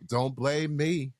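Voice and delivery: slow, drawn-out "don't blame me"; mimicked husband's protest. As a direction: lightly imitate a protesting husband, stretching the words. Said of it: "you had a full, like".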